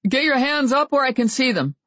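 high, nervous command; scared rookie giving orders; shaky voice. A narrator's reading. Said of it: "said a shaky voice".

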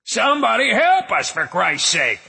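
high desperate yell; calling for help. Acted. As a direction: shout up through the manhole. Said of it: "He started calling".

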